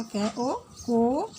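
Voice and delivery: कै ओ को spelled out very slowly, sound by sound; slow sound blending. Shown as a demonstration. Teacher spelling out sounds for children, very slowly. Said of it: "ओ मिलाया तो क्या बनेगा?".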